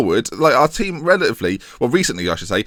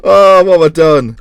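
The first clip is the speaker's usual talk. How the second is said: raised, louder cry of dismay; 5 semitones higher, 10 dB louder than usual. Real, not acted. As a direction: cry out as if you've caused a disaster. Reacts to surprise Dortmund result.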